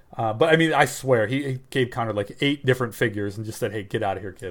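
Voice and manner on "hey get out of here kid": mock good-natured teasing, low, soft, joking. Retelling what a man said jokingly to Connor; retelling a joking remark. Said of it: "like jokingly".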